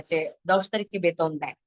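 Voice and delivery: ordinary talk, nothing marked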